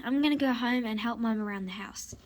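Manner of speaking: soft unvoiced whisper; hushed whisper on the way out. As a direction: whisper it to yourself. Whispered aside after leaving horse.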